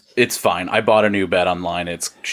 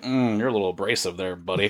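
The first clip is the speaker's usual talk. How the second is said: softer, dry little rebuke; mock put-down; 7 dB quieter than usual. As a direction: murmur it like a mild scolding. Imagined reply to an overeager email.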